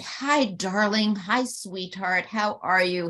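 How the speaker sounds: a hint of the sweet old man greeting her; softened father greeting. Imitating her softened father greeting her tenderly. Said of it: "he would say".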